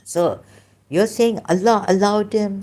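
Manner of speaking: normal talking voice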